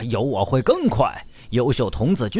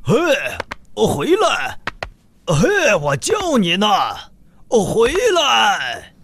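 slow, louder calling out; calling after; 8 semitones higher, 3 dB louder, slower than usual. Acted. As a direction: call the runaway hat back. Chasing his bouncing hat.

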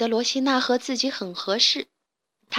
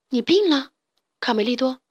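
worried; 3 dB louder than usual. Acted. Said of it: "有些担心".

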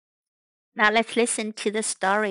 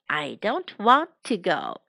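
lower, word-by-word repeat of "I don't want to go"; measured teaching repetition; slow model repeat; 3 semitones lower than usual. Shown as a demonstration. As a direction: space out each word for learners. Slower repeat for learners.

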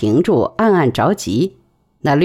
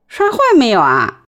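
concerned; 6 semitones higher than usual. A narrator's reading. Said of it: "关切地问".

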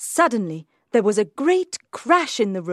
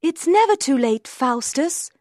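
high, urgent angel voice; good angel; 7 semitones higher, 3 dB louder than usual. A narrator's reading. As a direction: call out hopefully, pitched way up. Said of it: "the good angel said".

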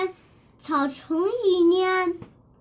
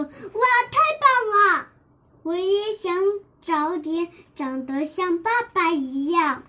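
thrilled wonder; faster than usual. Acted. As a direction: burst out in delight. Child admires father's skills. (高声兴奋惊叹)

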